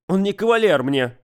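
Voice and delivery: sulky, high protest; sulky teen mumble. Acted. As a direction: grumble it back sulkily. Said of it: "буркнула Светка".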